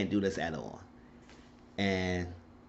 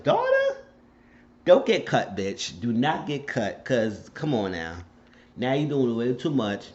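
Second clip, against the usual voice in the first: scolding yell; 4 semitones higher, 4 dB louder than usual. Real, not acted. Yelling at TV character.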